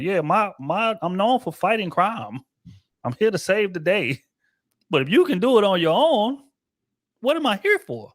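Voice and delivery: a puzzled superhero asking his purpose; a hint of a lost Superman; mock Superman. Voicing Superman's confusion.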